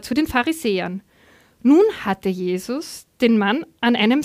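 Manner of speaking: animated, clearly phrased reading aloud; Bible story narration. A narrator's reading. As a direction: read the Gospel story to a congregation.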